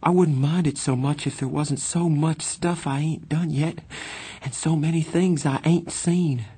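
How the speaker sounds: put-on high, plaintive boy's voice; quivering. A narrator's reading. Johnny telling Pony he doesn't want to die, plaintive. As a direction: plead against dying, pitched well up. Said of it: "He drew a quivering breath".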